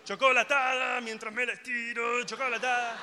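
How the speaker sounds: put-on eager kid. Kid begging for chocolate milk.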